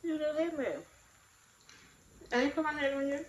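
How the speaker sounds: high and loud, outraged; indignant retort. Retold or imitated. Answering her partner's taunt, loud and indignant.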